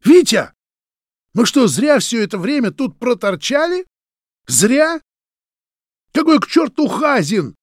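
high, loud enraged yelling at a friend; furious shout. A narrator's reading. Roman pinning Vitya to the wall, furious shout. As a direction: yell it in his face, betrayed.

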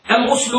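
"الغسل" with u after the ghayn: ghusl; ضم الغين. Shown as a demonstration. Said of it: "بضم الغين". (نطق "الغسل" بضم الغين)

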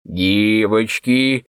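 put-on a drunk man hauling out a call to the girls; mock roar, stretched long; drunken roar. A narrator's reading. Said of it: "громогласно взревел".

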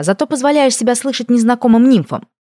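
high, pressing accusation; reproachful. A narrator's reading. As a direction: scold with rising indignation. Heroine scolds her familiar.

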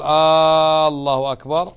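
"آه، الله أكبر" with a doubtful rising tune; questioning takbir. Shown as a demonstration. Teacher repeating the wrong questioning form. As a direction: ask it like a question. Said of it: "وخطأ أن تقول".

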